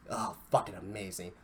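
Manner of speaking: normal talking voice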